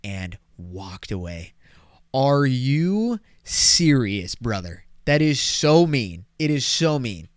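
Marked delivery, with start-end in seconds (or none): 2.1-7.3 slow, drawn-out, louder outrage; indignant disbelief. Real, not acted. Telling viewers about the snub, slow indignant disbelief. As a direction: stretch it out, stunned and hurt. Outraged at being cold shouldered.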